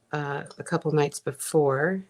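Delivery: talking while chewing gum; words round a piece of gum. Real, not acted. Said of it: "talk and chew gum at the same time".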